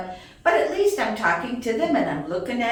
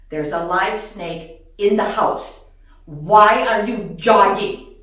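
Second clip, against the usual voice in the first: retold scolding; 3 semitones lower, 6 dB louder than usual. Scolds jogging husband.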